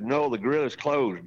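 put-on light Greek accent, firm refusal; insisting in a mild Greek accent. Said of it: "in his Greek accent".

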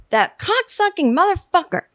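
high-pitched mock rant, pitch jumps up; furious curse. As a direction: spit it out like a fuming friend on the phone. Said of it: "Seema goes".

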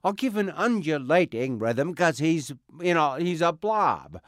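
high rolling blob voice, slowed; undulating Krang rhythm. Shown as a demonstration. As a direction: let the rhythm roll like a blob. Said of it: "let's see, rhythm".

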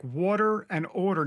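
New York "water and order"; New York rounded vowels on "water and order"; New York accent. Shown as a demonstration. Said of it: "my New York accent comes through".

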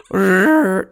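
loud rolling lip trill; robot war sound. Shown as a demonstration. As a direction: buzz it hard. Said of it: "trying to do a war sound".

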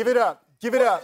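cheering the crowd on; loud hype call. Real, not acted. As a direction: pump up the applause. Hyping applause loudly.

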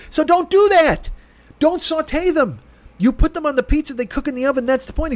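exasperated, lecturing the manager; retold argument, heated and emphatic; heated retort. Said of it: "I'm literally at that pitch".

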